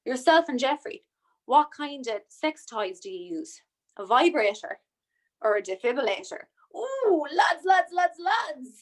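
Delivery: rowdy jeering pub banter; lad voice. Retold or imitated. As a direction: jeer like a lad at the bar. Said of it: "I'm doing my lad voice now".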